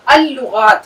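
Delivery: اللغات said al-lughat, the lam doubled and held; teacher sounds out اللغات as al-lughat with a long double l; sun letter demo. Shown as a demonstration. Teacher showing students how اللغات is read, doubled lam. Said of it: "یہاں تو آواز نکل رہی ہے".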